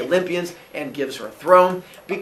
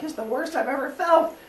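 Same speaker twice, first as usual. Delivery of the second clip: high, whiny suffering god; pained Zeus; 11 semitones higher than usual. Retold or imitated. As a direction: moan it like a miserable god. Zeus in pain, retold.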